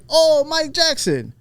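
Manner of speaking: high, drawn-out Irish exclamation; slow, high mock Irish greeting; imitated Irish accent. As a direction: mimic an excited Irish fan. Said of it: "Same thing".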